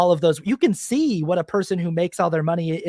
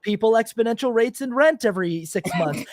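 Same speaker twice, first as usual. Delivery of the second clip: lightly mocked bragging hustler, higher and louder; mock-excited landlord boast, pitched up; boastful landlord; 4 semitones higher, 4 dB louder than usual. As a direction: play up a TikTok braggart showing off a hack. Acting out boastful landlords on TikTok.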